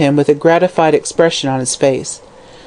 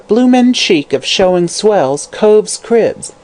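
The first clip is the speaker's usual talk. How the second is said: muttered grumble; 4 semitones higher, slower than usual. Acted.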